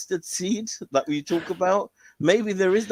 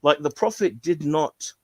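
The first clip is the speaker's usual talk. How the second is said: mock indignant condemnation; 2 semitones higher than usual. Scholar condemning the ruling, mock indignation. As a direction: tear apart the three-day rule. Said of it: "He was actually condemning".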